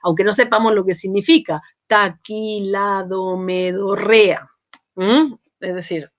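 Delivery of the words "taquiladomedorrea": "taquiladomedorrea" read slowly, syllable by syllable; sounded out phonetically. Shown as a demonstration. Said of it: "Somos capaces todos de leerla fonéticamente".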